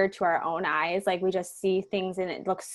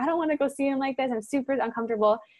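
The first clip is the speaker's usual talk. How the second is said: acted-out crying voice, tearful and higher in pitch; 6 semitones higher than usual. Recalling an uncomfortable drive to see someone: retelling own crying words. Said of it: "And I'm like crying".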